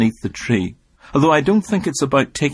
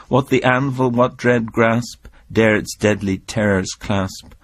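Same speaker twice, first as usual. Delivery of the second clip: poem recital. Acted. Recites The Tyger.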